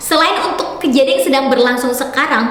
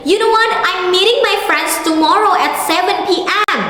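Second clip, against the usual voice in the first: example sentence; 6 semitones higher than usual. Pretend. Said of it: "kamu bilang gini".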